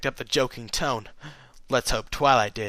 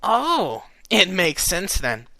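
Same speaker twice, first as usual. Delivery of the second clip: snickering; 5 semitones higher, much slower than usual. Acted. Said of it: "Rainbow snickered".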